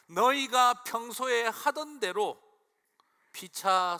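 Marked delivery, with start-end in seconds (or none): 0.1-2.4 much higher, louder and slow, stressing 너희가; slow emphasis. Real, not acted. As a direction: lean on every word of 너희가 평소에 하던 대로. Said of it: "설교 강조". (훨씬 높고 크게 천천히 강조)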